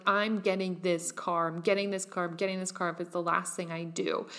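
chanting it to force it into being; forced determination. Retold or imitated. To herself about the car, mock forced determination. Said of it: "forcing myself into this idea of".

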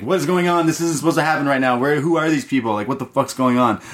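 a villain losing control of his plan; panicked villain. Retold or imitated. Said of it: "losing his mind".

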